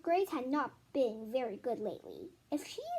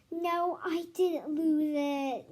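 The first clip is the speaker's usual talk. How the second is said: sternly; 3 semitones higher, 4 dB louder, much slower than usual. Acted. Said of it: "Missus Jules said sternly".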